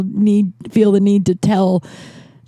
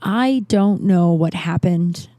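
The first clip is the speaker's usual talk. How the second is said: kind aunt. Retold or imitated. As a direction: break hard news kindly, with pauses. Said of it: "she was just so kind about it".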